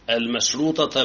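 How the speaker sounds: المشروطة ending in "-tata"; fully voiced fatha closing المشروطة; fatha case ending. Shown as a demonstration. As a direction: sound the final a on المشروطة. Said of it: "بالفتح".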